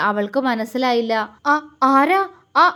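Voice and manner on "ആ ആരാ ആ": frightened, about to cry out; a scared gasp, woken by a stranger; startled fright. Acted. Girl woken in the dark, startled and frightened. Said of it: "അവൾ നിലവിളിക്കാനായി ഒരുങ്ങി".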